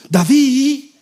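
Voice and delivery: mock an impatient texter calling out. Impatient follow-up message acted out.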